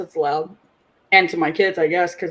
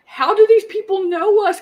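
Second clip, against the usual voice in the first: put-on high, puzzled kids' voice; confused kids; 10 semitones higher than usual. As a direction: ask it as a baffled teenager. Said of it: "both of my kids are like".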